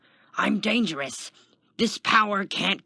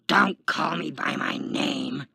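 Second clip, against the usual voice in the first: loud, slow, raised angry retort; spitting anger; 4 semitones higher, 6 dB louder than usual. A narrator's reading. Taskmaster snaps at the guard for naming him, spitting. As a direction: spit the words out. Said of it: "Kenton the Taskmaster spit".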